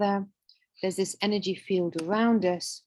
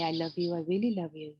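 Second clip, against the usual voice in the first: tender self-love; 3 semitones lower, 3 dB quieter than usual. Shown as a demonstration. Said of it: "And then you say".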